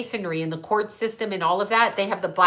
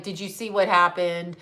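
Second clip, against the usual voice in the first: flat affect; 2 semitones lower than usual. Shown as a demonstration. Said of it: "So I talked like this".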